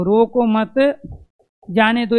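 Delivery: रो को मत as one unit, long pause, then जाने दो; group रो को with मत, stop, then say जाने दो; pause after मत. Shown as a demonstration. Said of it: "इसका प्रयोग हम इस रूप में भी कर सकते हैं".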